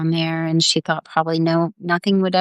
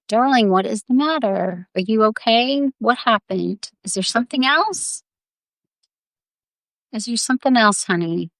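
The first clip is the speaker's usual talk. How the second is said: higher, gently coaxing questions; concerned mothering; 4 semitones higher than usual. Acted. Mama asking crying little Jo what happened, concerned mothering. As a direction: coax a crying child with tender concern.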